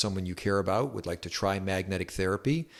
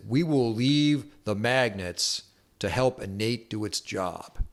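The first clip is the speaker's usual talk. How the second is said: Southern drawl; 3 semitones higher, slower than usual. Retold or imitated. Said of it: "this real Southern drawl".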